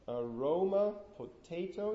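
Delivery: aroma and potato stressed "a-RO-ma", "po-TA-to"; aroma, potato with weak first syllables; stress on second syllable. Shown as a demonstration. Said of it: "is not stressed on the first one".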